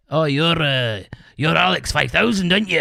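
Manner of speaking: lightly imitated Scottish promoter; Scottish accent. Promoter greets the musician after the gig, mock Scottish accent. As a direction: put on a bit of a Scottish accent. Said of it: "do you like my Scottish accent".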